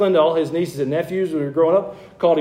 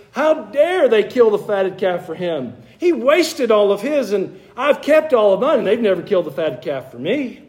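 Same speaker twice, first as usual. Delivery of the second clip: indignant older brother, higher pitch, acted; bitter; 5 semitones higher than usual. Older brother resenting the younger's welcome, bitter. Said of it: "he gets bitter with this younger brother".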